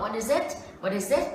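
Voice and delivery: "What is it" run together, each final consonant joined onto the next vowel; linked sounds. Shown as a demonstration. Teacher showing learners how the words join, linked sounds. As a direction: say "What is it" as one connected chain of sounds. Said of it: "Cái hiện tượng nối âm".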